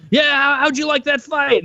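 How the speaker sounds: high, chirpy mock Joe Rogan; mock cheerful interviewer. Mocking the host interviewing a dazed fighter, in a high chirpy voice. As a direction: ham up an oblivious interviewer, way up high. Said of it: "you walk over and like".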